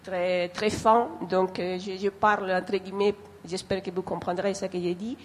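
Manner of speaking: non-native speaker with a foreign accent in French. Real, not acted. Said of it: "mon français ne peut pas être, très fin".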